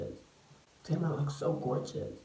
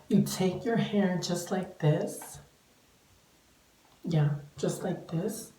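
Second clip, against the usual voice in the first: tutorial voice. Shown as a demonstration. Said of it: "Only for you guys".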